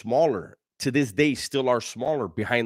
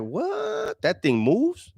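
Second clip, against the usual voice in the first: sudden high squeak of surprise on what; shocked disbelief; much slower than usual. Retold or imitated. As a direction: act stunned, voice jumping up. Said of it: "I was like".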